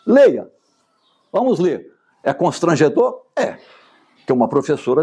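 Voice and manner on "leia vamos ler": teacher's command. Pretend. Commanding a pupil to read.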